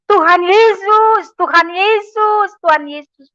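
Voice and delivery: high drawn-out calls that fade away; calling out. Retold or imitated. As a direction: call the name three times, letting it fall. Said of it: "Tiga kali saya bilang".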